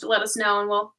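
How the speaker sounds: hiccuping mid-sentence; hiccups. Real, not acted. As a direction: talk through the hiccups. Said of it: "I got the hiccups".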